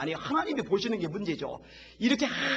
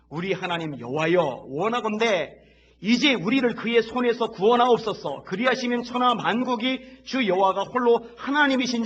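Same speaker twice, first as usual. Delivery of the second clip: fervent prayer; 7 dB louder than usual. Acted. Hezekiah's prayer read aloud.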